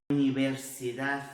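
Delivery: tongue between the teeth to close UNIVERSIDADE; Madrid final d. Shown as a demonstration. Teacher showing what madrilenhos do, slow lisped final d. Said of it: "coloca a língua entre os dentes".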